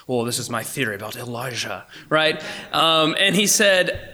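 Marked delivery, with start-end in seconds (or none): 0.1-1.9 imitated Scottish preacher's accent. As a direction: put on a light Scottish accent, a little softer. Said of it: "he did in that cool Scottish accent".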